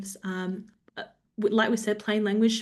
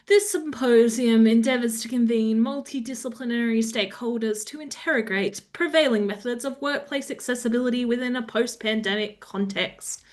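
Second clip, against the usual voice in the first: lightly pompous, louder reading; 2 semitones higher, 4 dB louder than usual. Shown as a demonstration. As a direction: read it like a self-important official. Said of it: "I like to read it in a bit of a pompous voice".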